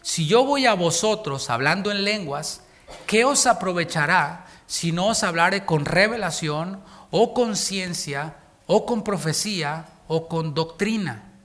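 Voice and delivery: slow, solemn Bible reading; measured preacher reading scripture. Acted. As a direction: read the verse slowly and gravely. Reads scripture aloud.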